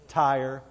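"Tire" drawled Texan style as "tah-yer"; Texas-accented tire. Shown as a demonstration. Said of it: "It's all the same word".

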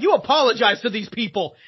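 a touch of stern reproach in retelling; retold scolding. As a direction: scold a friend, lightly imitated. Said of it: "like, scolding".

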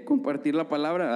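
a nervous crack in the voice. Real, not acted. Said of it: "se me salió un gallo".

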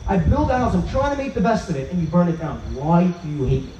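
high pleading cry to God, fading at the end; mock anguished cry. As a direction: cry out to Hashem from the burning island. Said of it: "He screams out".

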